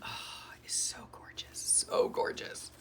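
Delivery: breathy awed whisper. Real, not acted. Whispering to viewers about the gorgeous paper. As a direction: whisper it like a precious secret. Admiring the journal paper up close.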